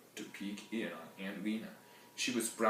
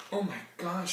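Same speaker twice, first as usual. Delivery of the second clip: breathless laughing; 10 semitones higher, 4 dB louder than usual. Acted. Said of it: "trying to catch her breath".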